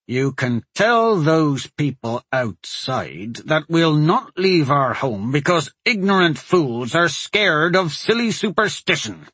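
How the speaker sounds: slow, defiant words pushed through clenched teeth; a husband's slow, defiant anger through clenched teeth. Acted. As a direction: hold back the anger and bite each word. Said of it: "He spoke through clenched teeth".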